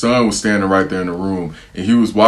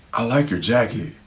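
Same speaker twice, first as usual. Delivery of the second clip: mocking the mom; 3 semitones higher, 6 dB quieter than usual. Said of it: "she's like".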